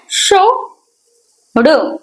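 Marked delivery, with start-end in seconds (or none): 0.1-0.7 शो drawn out high as a separate sound. Shown as a demonstration. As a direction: sound out शो slowly and clearly. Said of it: "पहले consonant श बनाओगे". (शो को अलग करके खींचकर बोलो)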